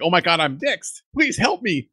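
hammed-up fear, pitch climbing up high; mock panic. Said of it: "that's when she finally breaks down".

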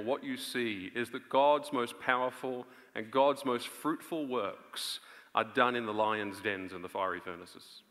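ordinary talk

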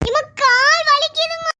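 slow, drawn-out whine of fake pain; whiny complaint. Daughter whining to mother about leg, drawn out. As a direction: stretch the words like a sulking child.

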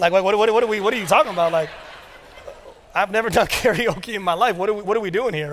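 rapid, incredulous what-what-what; baffled disbelief. Retold or imitated. Dad asks wife about karaoke, baffled and fast. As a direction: sputter in confused disbelief.

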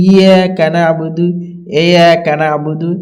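"ইয়াকা" begun loosely, without the firm doubled y; mistaken pronunciation. Retold or imitated. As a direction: say "ইয়াকা না'বুদু" as careless readers do. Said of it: "কিন্তু ইয়াকা না'বুদু নাই".

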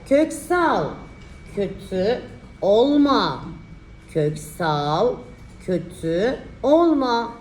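slow, drawn-out dictation; dictating. Shown as a demonstration. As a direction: spell out the sentence slowly. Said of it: "dikte çalışması".

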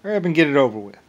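loud, defiant, daring them to shoot; defiant yell. Retold or imitated. Yelling back at people threatening to shoot him, defiant and loud. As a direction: bellow it like a dare. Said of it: "I was like".

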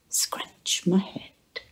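a high, slow whisper of a coaxing cat; lightly voiced cat begging; cat asking. A narrator's reading. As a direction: whisper it as the cat's wish. Cat's imagined plea.

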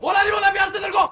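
heated scolding. Real, not acted. Heated argument with housemate.

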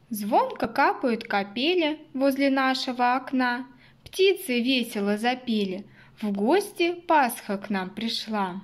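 put-on reciting a children's Easter poem; sing-song verse for kids; poem recitation. Shown as a demonstration. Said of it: "Послушайте стишок". (чтение стишка детям)

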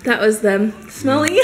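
talking with chocolate in mouth; mouth full. Real, not acted. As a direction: speak around a bite of chocolate. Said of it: "I have chocolate".

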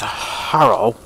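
a lightly put-on Chinese accent on hello; a hint of a Chinese accent; mock Chinese accent. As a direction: say hello imitating a Chinese caller. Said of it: "that's how they speak".

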